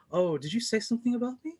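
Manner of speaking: sly taunting mercenary. Acted. Smug mercenary Nithri needling Donde, high teasing sneer. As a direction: toy with them, high and mocking.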